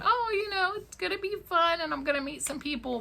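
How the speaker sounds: high, quick, breezy put-on voice for her younger self; mock carefree high voice; naive past self. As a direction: toss it off lightly, like you're sure it's just for fun. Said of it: "I got on here thinking".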